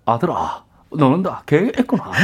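낮고 조용한 아버지 흉내; 낮게 깔아 읊조려. Retold or imitated. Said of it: "한 번만 더 하시면". (아주 낮은 저음 대사)

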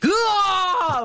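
long high roaring shout; battle roar. Shown as a demonstration. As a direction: let out a huge cheering roar. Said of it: "어떻게?".

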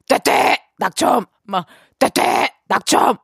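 sing-song mock buzzer call; teasing lottery announcer. Daughter teasing her father about his losing lottery ticket, mock announcer chant. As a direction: tease dad with a chanted result. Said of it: "막 제가 막 이렇게 해요".

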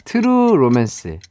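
트루 로맨스 slow and exact; precise, clear pronunciation. Shown as a demonstration. Host modelling the answer, precise and slow. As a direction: enunciate 트루 로맨스 slowly, syllable by syllable. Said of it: "발음을 조금 더 정확하게".

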